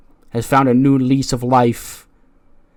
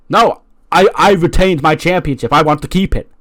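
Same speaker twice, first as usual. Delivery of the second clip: higher, louder mock whine of protest; whiny protest; 5 semitones higher, 4 dB louder than usual. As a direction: whine it like a spoiled champion refusing. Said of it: "And he goes".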